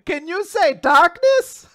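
high, loud, slow question; kids' show host parody. Acted. Dora quizzing viewers about darkness, slow cartoon voice. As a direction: coax the little viewers, hammed-up.

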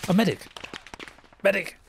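shouting for a medic; man down shout. Real, not acted. Calling for a medic in battle.

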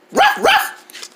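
high, breathy little puppy yap; puppy barking. Acted. The pet puppy Tongues greeting the viewers with a yap. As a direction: yap like a tiny excited puppy. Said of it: "this is our pet puppy dog".

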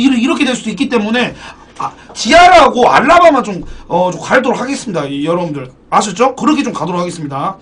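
ordinary talk, nothing marked

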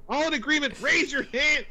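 high, rallying call; rally the council to vote; voice acting. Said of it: "Amazing voice acting".

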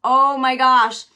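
high whoa then loud slow oh my gosh; amazed whoa. Retold or imitated. Preacher overwhelmed by the Holy Spirit's word, exclaiming loudly. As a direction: let the amazement burst out. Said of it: "And I was like".

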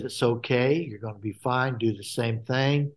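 soft, quiet reassurance; a still small voice, gently; still calm voice. Retold or imitated. The Lord reassuring the child after the fall, softly calm. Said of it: "calm voice".

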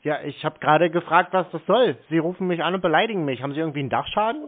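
loud, fast, furious scolding; angry interruption. Real, not acted. Caller yells at the agent to shut up, fast and loud. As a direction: cut her off and yell her down.

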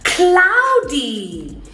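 put-on animated, drawn-out kids' lesson voice; teacher to young children. Shown as a demonstration. Teacher leading a weather game for children, animated. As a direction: sing out the words playfully to little learners.

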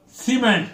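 cement with MENT stressed; second-syllable stress. Shown as a demonstration. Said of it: "if meant sound second syllable".

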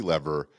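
"lever" corrected to LEV-er; short-e lever. Shown as a demonstration. Host redoing the line after correction, "lever" as LEV-er. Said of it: "maybe it's a Canadian thing".

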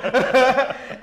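a big burst of real laughter; hearty amused laugh; loud laugh. Real, not acted.

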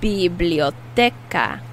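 slow "Biblioteca" with a hard K for the C. Shown as a demonstration. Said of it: "the C is pronounced like a K".

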